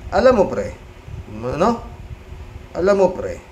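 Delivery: a hint of a tipsy drinking buddy; mocking the senator as a drunk at a drinking session, lightly voiced; drunk Robin. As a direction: slur it lightly like a drunk insisting he's sober. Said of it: "Para lasing nga".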